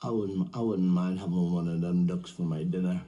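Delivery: put-on low, halting drunk mumbling to himself; drunk man. Little drunk eyeing the ducks in the park, tipsy musing. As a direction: stumble over the words like a drunk. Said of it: "Get a little drunk".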